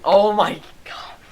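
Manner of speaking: slow, hushed, breathless oh my god; stunned whisper. Real, not acted. Gamer gasping at the misfiring gun, whispered. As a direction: whisper it in disbelief.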